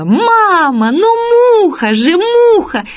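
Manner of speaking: put-on high-pitched cry of an insistent little girl; imitated child's cry. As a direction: call out to mum, stretching the words up high. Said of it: "на весь автобус закричала".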